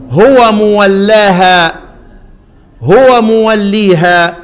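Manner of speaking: مولاها then موليها drawn out very slowly; very slow teacher's demo of the two readings; tajweed reading demo. Shown as a demonstration. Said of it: "demonstrates two readings".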